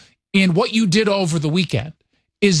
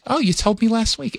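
slightly raised New York mom impression; mother's New York accent; 4 semitones higher than usual. Mother reminds son, light New York accent. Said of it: "talks like this all the time".

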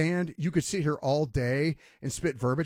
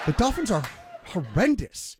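laughing scorn. Retold or imitated. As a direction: repeat it bigger, laughing at the idea.

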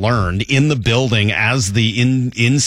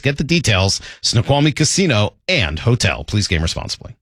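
brisk scripted promo read by a host; upbeat opening, then steady sponsor read; radio ad read. Acted. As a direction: sell the casino giveaway to listeners. Host reads a casino ad.

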